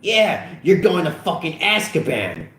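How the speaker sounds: high-pitched hilarity; mock-hysterical high voice; laughing jeer. A narrator's reading. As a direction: jeer through amusement. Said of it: "laughed Officer Slater".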